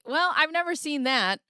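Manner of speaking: startled reaction; surprised. Real, not acted. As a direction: caught off guard.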